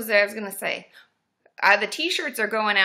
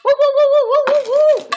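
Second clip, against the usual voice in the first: high, loud hooting woos; monkey call; monkey hoots; 14 semitones higher, 10 dB louder, much faster than usual. Acted. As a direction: hoot like a monkey. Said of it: "I've been working on my monkey noises".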